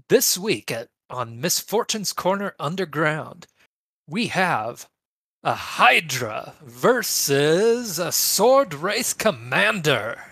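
booming, high ring announcer hype, slow; wrestling announcer voice. Acted. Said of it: "I'll give the, it a try on opening that up".

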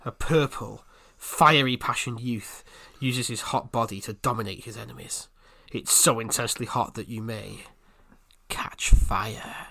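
low breathy seductive read; sultry narrator. Shown as a demonstration. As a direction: purr it out like a sexy trailer voice. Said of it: "in a slightly more normal voice".

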